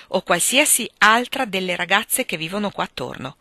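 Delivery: a mother's earnest lecture, lightly acted; mildly emphatic motherly reproach; serious scolding. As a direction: press your concern on a son. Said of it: "una ramanzina piuttosto seria".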